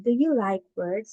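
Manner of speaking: rising end; rising question tune. Shown as a demonstration. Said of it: "since this is a question".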